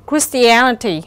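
"Christianity" stressed on AN, the third syllable. Shown as a demonstration. Teacher demonstrating word stress for students, stress on third syllable. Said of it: "rơi vào âm tiết thứ ba".

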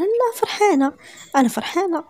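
wife insisting to husband; eager insistence. Acted. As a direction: rush to insist. Zahra insisting she is happy.

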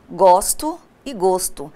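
first "gosto" with an open o, the second "gosto" with a closed o; two pronunciations of gosto. Shown as a demonstration. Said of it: "mesma grafia e pronúncias diferentes".

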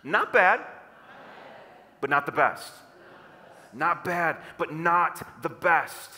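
"Not bad" punched loudly, "but not the best" following firmly; emphatic crowd-leading repeat of "Not bad, but not the best". Shown as a demonstration. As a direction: hit "Not bad" hard, then stretch "not the best". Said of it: "with a little more emphasis".

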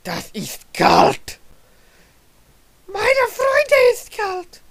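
slow, hammed-up German accent. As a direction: drawl it like a stage German, very high at the end. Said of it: "dead German accent".

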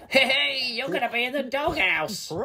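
high, squealing villain troll; cackling troll. A narrator's reading. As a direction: cackle into a gleeful taunt. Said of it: "Toilet Troll cackled".

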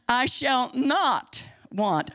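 "not" drawn out, very slow line; stress on NOT. Shown as a demonstration. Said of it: "Underline that word "not".

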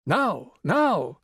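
small high urging inner voice; little exhorting voice. Acted. Her inner little voice urging the Rani, small and insistent. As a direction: press gently but insistently, now now. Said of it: "her little voice kept exhorting".

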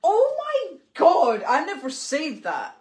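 high, slow outraged gasp; shocked denial. Real, not acted. Husband accused by wife, slow outraged denial. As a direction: drag out the shock.

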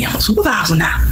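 breathy whispered brag; mock him whispering his big title; hushed mocking brag; mock bragging boss. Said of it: "I ain't on here bragging".

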